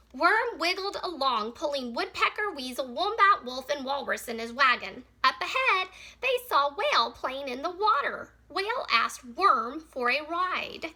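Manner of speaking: measured read-aloud with animal names picked out; story reading. Acted. Teacher reads a picture book about Worm's wagon, story reading. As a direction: read it clearly to young children.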